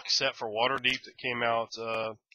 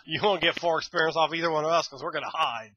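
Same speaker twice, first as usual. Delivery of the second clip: higher, louder cackling kobold taunt; mocking kobolds; 6 semitones higher, 5 dB louder than usual. Reviewer voicing kobolds in the art, laughing taunt. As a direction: play the sneering little kobolds. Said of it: "They're like".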